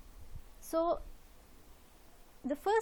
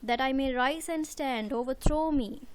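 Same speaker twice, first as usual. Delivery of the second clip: reading the poem; 4 dB louder than usual. Shown as a demonstration.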